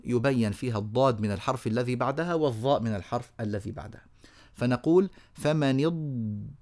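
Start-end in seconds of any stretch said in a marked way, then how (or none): 5.3-6.5 slow اض- with the ض held long; held ḍād. Shown as a demonstration. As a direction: draw out the ض in فمن اض- before moving on. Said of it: "أعطيناها زمنها".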